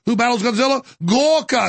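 mock movie trailer. Mock monster-movie announcement.

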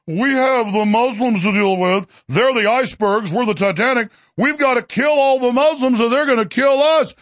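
lightly mocking voice of an opponent; a touch of mock-preachy imitation; mock Christian Zionist. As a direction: parody his alarmist talking points. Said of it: "I'm gonna say, "What do you say".

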